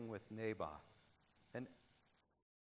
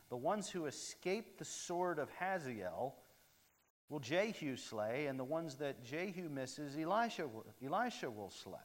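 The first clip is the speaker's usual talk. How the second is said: voice of God; 5 semitones higher, 6 dB louder than usual. Acted. God's verdict quoted in sermon.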